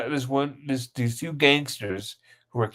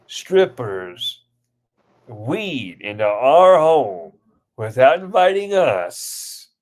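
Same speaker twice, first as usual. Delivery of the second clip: slow, drawn-out outrage, word by word; mock parental scolding; 4 dB louder, much slower than usual. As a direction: act out an appalled parent, stretching each item. Parent scolding in retold skit.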